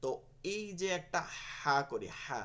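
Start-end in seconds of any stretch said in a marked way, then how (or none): 1.6-2.4 "হা" led by a puff of air; breathy ha. Shown as a demonstration. Teacher likens it to winter breath, breathy ha. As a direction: push breath out before the vowel of "হা". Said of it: "এই রকম উচ্চারণটা বের করতে হবে আগে বাতাসটা".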